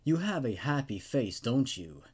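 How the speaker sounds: steady, measured horror narration; low-key storyteller voice for a horror tale; story narration. A narrator's reading. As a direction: read it like a creepy campfire tale. Reads creepypasta story aloud.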